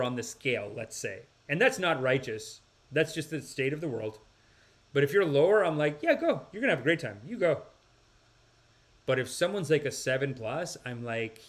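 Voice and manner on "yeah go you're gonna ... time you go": higher, breezy send-off; dismissively upbeat, acted; mock encouragement. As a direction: wave them off with fake cheer.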